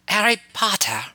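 loud high indignant cry; outraged shout. A narrator's reading. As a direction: yell his full name in outrage. Ayla finds herself turned pink.

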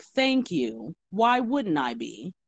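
polite but pointed, at an unraised level; restrained politeness. Retold or imitated. Server answers customer's "well-spoken" remark, restrained politeness. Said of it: "I was polite about it".

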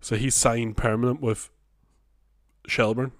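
holding back a burp; stifled burp. Real, not acted. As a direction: talk while swallowing a burp. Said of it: "stifling a burp there".

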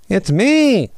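squeaky, loud and high; high-pitched voice. Acted. Weasel announcing itself from the bushes, high and squeaky. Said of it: "came a high-pitched voice".

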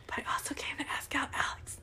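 soft, embarrassed whisper; sheepish confession. Retold or imitated. Admitting to the lady she came for a date, whispering. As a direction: whisper it like an awkward secret.

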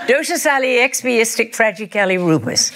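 the word said backwards syllable by syllable; backwards speech. Shown as a demonstration. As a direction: say it backwards, quick and playful. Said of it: "can you say it backwards".

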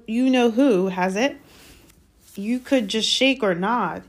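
lightly voiced embarrassed boy; a hint of an awkward young boy; boy's voice. A narrator's reading. Harry voiced.

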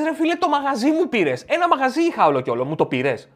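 high, loud outraged protest; wronged friend. Acted. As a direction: cry out that your shop was stolen. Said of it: "Λες".

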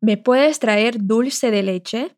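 Me puedes traer stretched out very slowly; very slow request. Shown as a demonstration. Teacher repeats Pedro's request very slowly for learners. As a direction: ask it slowly, word by word. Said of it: "Agora a frase toda".

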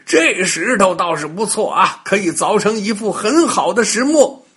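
chuckling, pleased stonemason; hearty laugh of a happy stonemason; laughing delight. Acted. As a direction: laugh through the words, delighted at the find. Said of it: "乐得眉开眼笑的".

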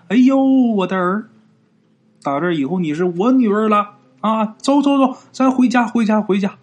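delighted, fussing motherly excitement; overjoyed mother. Acted. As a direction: gush with joy at a new daughter. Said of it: "那个乐的嘴都合不上了".

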